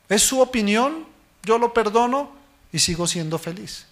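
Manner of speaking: normal talking voice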